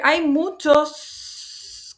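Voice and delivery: very slow, dictating example. Shown as a demonstration. Teacher to class, dictating the example very slowly. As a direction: spell it out like dictation. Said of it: "yo puedo decir".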